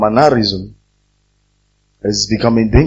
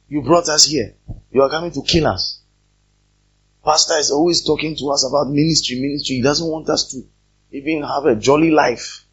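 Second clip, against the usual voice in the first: mock complaint, pitched higher; grumbling congregation; 4 semitones higher than usual. Pastor imitates members griping about ministry, mock grumbling.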